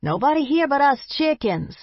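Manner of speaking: high, playful barked call. Acted. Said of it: "I barked out".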